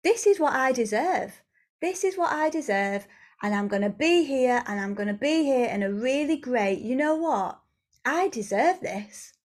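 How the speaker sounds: firm insistence, not negative; determined. Acted. Woman refusing any other way claims what she deserves, determined. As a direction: stake a claim with conviction. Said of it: "that determination, that anger, that frustration".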